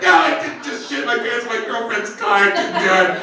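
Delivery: hammed-up crying in denial; screaming, crying. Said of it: "I'm screaming, crying".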